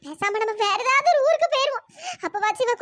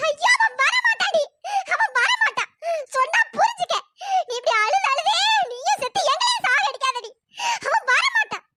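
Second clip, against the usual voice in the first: anguished cry; 5 semitones higher than usual. Acted. Grandmother breaks the news.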